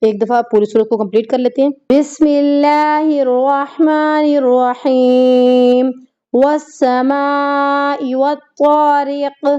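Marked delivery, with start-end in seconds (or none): 1.9-9.4 slow melodic Quranic chant; Quran recitation. Acted. Teacher completing the surah once for students, melodic recitation. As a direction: recite the whole surah steadily, drawing out the long vowels.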